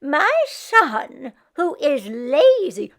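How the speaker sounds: put-on grumbling old mother; Meshka voice. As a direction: slip into a complaint. Meshka starts her praise.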